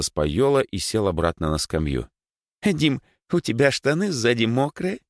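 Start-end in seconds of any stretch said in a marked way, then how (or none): 2.6-5.0 put-on high, teasing girlish question; giggly. Girl teases friend about wet trousers, giggly. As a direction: tease him with a hint of a giggle. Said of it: "хихикнула Лёлька".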